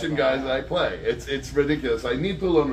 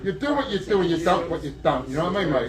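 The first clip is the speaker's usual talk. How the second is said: put-on London accent. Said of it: "you mentioned Guy Ritchie".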